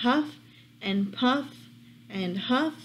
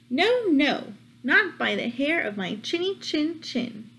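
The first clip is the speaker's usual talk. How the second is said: higher, defiant little pig; 4 semitones higher than usual. Acted. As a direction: refuse the wolf like a brave piglet. Pig answers the wolf.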